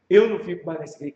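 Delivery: retold indignant refusal. Offended member refusing to stay, brisk mock indignation.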